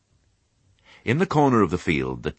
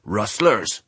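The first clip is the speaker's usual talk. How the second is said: put-on old sheep; 3 semitones higher than usual. A narrator's reading. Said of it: "said Ma".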